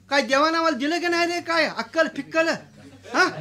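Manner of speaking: fast, scornful grumble; scoffing landlord. Acted. Landlord scoffing at the peon's meeting invitation.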